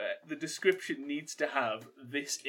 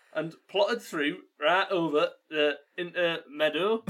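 attempted Geordie accent; 3 semitones higher, 3 dB louder than usual. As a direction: have another go at Geordie, stumbling through the words. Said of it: "read those words in a Geordie accent".

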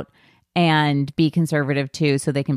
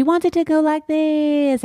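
higher, drawn-out Southern lilt; sing-songy Southern accent; 10 semitones higher than usual. Retold or imitated. Podcast host mimics Britney's line endings, sing-songy Southern accent. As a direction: imitate an actress's sing-song Southern drawl. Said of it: "it's, like, sing-songy too".

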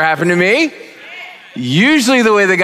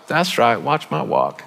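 confident Gideon; 3 semitones lower, 4 dB quieter than usual. Retold or imitated. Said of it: "he was like".

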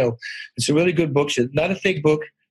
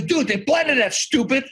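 mock exasperated teacher; 9 semitones higher, slower than usual. Teacher answering ten-year-old's question about the tree, mock exasperation. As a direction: imitate a teacher fed up with a silly question. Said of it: "And then he's screaming".

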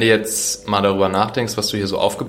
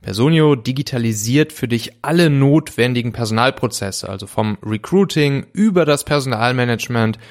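ad read. Acted. Host reads sponsor ad.

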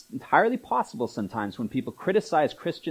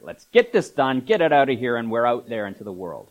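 hurried, louder mock churchgoer wanting it over; brisk get-it-done; 5 dB louder than usual. Preacher mimicking a churchgoer who wants church done, brisk and louder. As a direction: rush through it like a chore. Church as a quick doctor's visit.

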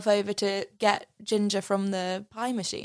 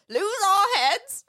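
much higher, louder outraged retort; indignant shout; 11 semitones higher, 5 dB louder than usual. Retold or imitated. Bunty scoffing at Ginger's plea, indignant shout. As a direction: throw the words back at her, scandalised.

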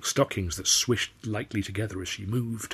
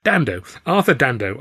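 higher and louder, gushing out the name; burbling introduction; 3 semitones higher, 6 dB louder than usual. Acted. Flustered Arthur introducing himself to Clara. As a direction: babble the name nervously. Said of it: "I burbled".

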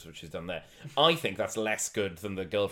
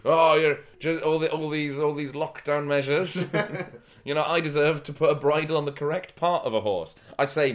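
laughing mock complaint; 5 semitones higher, 6 dB louder than usual.

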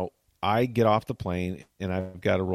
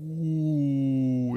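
dismayed no; 4 semitones higher than usual. Retold or imitated. Sees he's at wrong gate.

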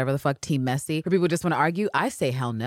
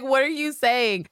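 much higher, slow, disbelieving; incredulous Anne; 10 semitones higher than usual. Retold or imitated. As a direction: hear it and balk. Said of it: "Anne's like".

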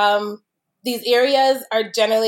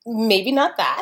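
sweet, gentle refusal; slower than usual. Real, not acted. Wine expert kindly turning down the host's pick, gentle. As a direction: let them down gently. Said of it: "is so sweet. It's so gentle".

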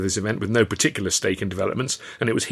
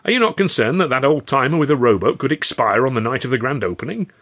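raised, cheeky needling question; chirpy cheek; 4 semitones higher, 5 dB louder than usual. Acted. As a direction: chirp it up to tease the boss. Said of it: "George Roby chirped up".

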